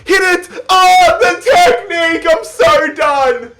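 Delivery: shouting through a sore throat; straining a sore throat, high and loud. Real, not acted. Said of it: "I've been trying not to scream here because my throat is so sore".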